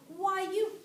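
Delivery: the monkey starts to tell the buzzard off; angry outburst. A narrator's reading.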